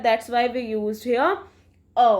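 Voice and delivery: slow, deliberate rule; slow emphasis. Shown as a demonstration. Teacher explaining the article to students, slow. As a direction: lay it out word by word. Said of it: "rule spoken for students".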